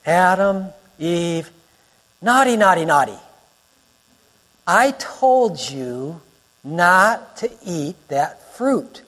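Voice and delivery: lightly voiced indulgent scolder; mock scolding. Preacher pretends God is telling off Adam and Eve, mock scolding. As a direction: wag a finger with slow, spaced-out words.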